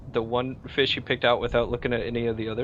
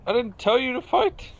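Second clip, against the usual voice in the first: angry; 12 semitones higher, 4 dB louder than usual. Acted. DM voices angry captain.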